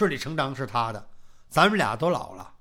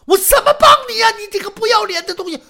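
shrill, much higher, loud and fast outburst; furious scolding; 12 dB louder, faster than usual. Acted. Old wife rounding on husband's shameless request, furious shout. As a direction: lash out at him in disgust.

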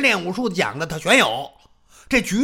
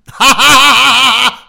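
a loud hearty ha-ha-ha from a big man; booming laugh; 2 semitones higher, 9 dB louder than usual. Acted. Xiong Rengang laughs at opponent.

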